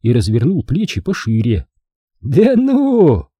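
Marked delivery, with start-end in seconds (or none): 2.2-3.3 high mocking voice; shrill sneering. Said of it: "пронзительно захихикал".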